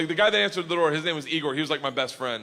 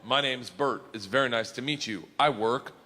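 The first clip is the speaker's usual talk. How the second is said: slow translation; 3 semitones lower, slower than usual. Retold or imitated. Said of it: "I'll tell you what the sentence says".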